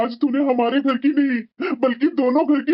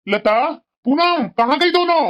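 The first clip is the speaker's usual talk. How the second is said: raised voice calling through the rooms; 2 semitones higher than usual. Acted. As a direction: call out to find them. Father calls out through house.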